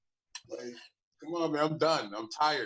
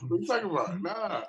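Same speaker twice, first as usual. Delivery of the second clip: higher, laughing what are you talking about; laughing disbelief; 6 semitones higher than usual. Real, not acted. Host laughs off co-host's sleeping jab, laughing. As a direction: crack up at the question.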